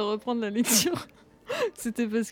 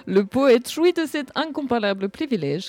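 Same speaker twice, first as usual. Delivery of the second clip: put-on Russian accent. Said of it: "je vais lire avec l'accent russe".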